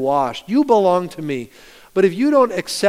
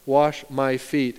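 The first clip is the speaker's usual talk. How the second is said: slow refusal; 2 semitones lower, slower than usual. Retold or imitated. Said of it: "look at how Peter rejects Jesus".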